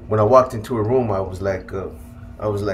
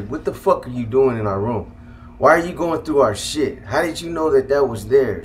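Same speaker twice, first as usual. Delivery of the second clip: raised-pitch imitation of an upset mother; mildly acted indignant questioning; retold angry mom; 2 semitones higher than usual. Mom confronting son caught in her room, mildly imitated anger. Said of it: "she was mad. She was upset".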